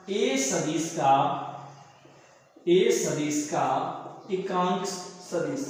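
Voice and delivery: slow, word by word; slow explanation. Shown as a demonstration. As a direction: spell out each word for the class. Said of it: "teacher slows to stress the meaning". (धीमे से समझाते हुए)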